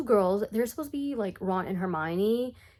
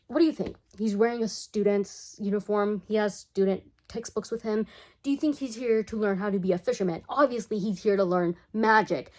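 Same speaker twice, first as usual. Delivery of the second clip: sarcastic. Acted. Speaker's own indignant comeback.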